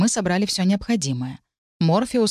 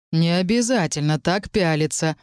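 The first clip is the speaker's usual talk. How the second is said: a hint of a dragon's baritone, lightly mocking; light mockery. Dragon Ark teasing the staring necromancer, mildly mocking. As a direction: tease him gently for staring. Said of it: "с лёгкой насмешкой ... своим драконьим баритоном".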